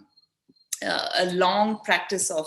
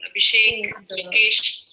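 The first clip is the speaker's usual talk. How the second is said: louder roll call, one name at a time; 5 dB louder than usual. Real, not acted. Host checking who's there on the online session, calling out names. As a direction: call each name to get attention.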